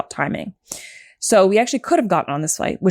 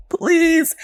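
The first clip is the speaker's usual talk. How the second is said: high, breathless whispered please; pleading whisper; 10 semitones higher than usual. Retold or imitated. Whispered plea to the gate agent for a seat. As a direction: beg in a hush. Begging airline agent for standby.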